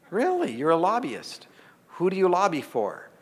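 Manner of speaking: mock astonishment at his answer; incredulous really, high pitched; surprised. Surprised reaction to lobbyist.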